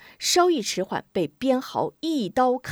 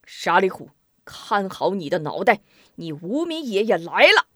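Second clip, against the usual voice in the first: battle cry; 3 dB louder than usual. Acted. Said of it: "大喊一声".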